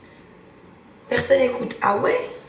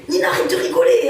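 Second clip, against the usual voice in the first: higher, louder urgent "Nina, arrête"; panicked plea; 6 semitones higher, 6 dB louder than usual. Retold or imitated. Cousin pleading with Nina to stop laughing, loud.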